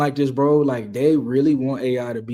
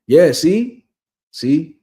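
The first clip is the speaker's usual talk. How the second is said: excited; 4 semitones higher, 7 dB louder, much slower than usual. Real, not acted. Laughing emphatic aside.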